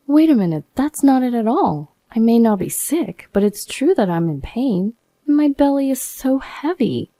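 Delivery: indignant protest. Acted. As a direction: push back, high and wounded. Wife protests husband's accusation.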